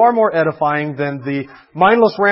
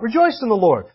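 glib cheer; 5 semitones higher than usual. Retold or imitated. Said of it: "Just lost their job".

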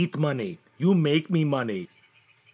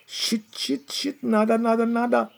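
louder and higher, despairing; frustrated outburst; 5 semitones higher, 3 dB louder than usual. Acted. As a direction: blurt it out in frustration. Finds no spray in truck.

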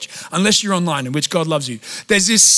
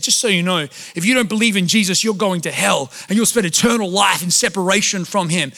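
mock preacher rant; 3 dB louder than usual.

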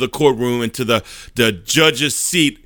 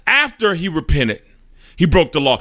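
higher, pushing the accusation hard; furious; 4 semitones higher than usual. Acted. Satan slamming the desk before the judge, furious. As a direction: slam it down like a fist on the desk. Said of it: "in furious".

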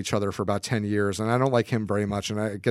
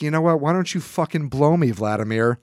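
mock angry retort; 3 dB louder than usual.

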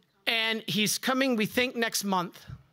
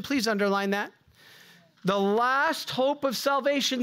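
normal talking voice

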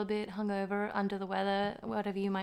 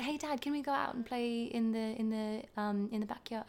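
put-on child's polite British accent, softer; 5 dB quieter than usual. Son asking Dad to play outside, British accent. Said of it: "talk to him in his British accent".

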